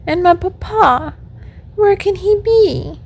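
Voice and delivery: high, plaintive little puppet voice; acted tearful pleading, pitched well up; weeping puppet lament. A narrator's reading. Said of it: "as he wept".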